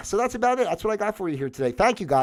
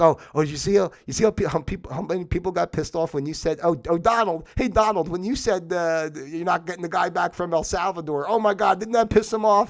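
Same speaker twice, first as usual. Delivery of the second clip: mocking leaders; 4 semitones higher than usual. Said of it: "going, laughing, like".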